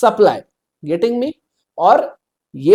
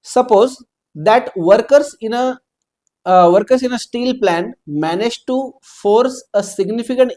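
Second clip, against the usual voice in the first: reading the exam question aloud, slowly; slow, deliberate read-out of the problem; much slower than usual. Shown as a demonstration. Teacher reading the question to students, slow and deliberate.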